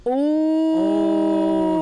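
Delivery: sudden high loud oh; jolted exclamation; surprised. Real, not acted. Surprised by the date remark.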